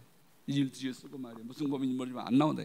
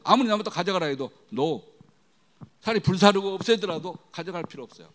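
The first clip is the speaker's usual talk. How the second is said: ordinary talk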